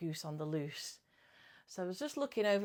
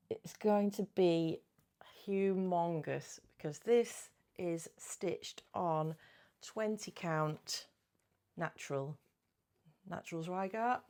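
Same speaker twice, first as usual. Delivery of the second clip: whisper. Real, not acted. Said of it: "whispered aside".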